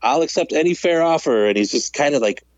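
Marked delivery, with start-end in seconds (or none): 0.0-1.4 aggressive. Retold or imitated. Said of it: "it was very aggressive".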